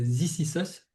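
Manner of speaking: English title in a French accent; slow "zis is us" with a French accent. Real, not acted. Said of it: "Mon accent anglais, il est vraiment terrible".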